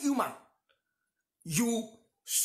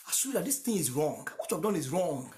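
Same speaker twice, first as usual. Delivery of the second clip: ordinary talk, nothing marked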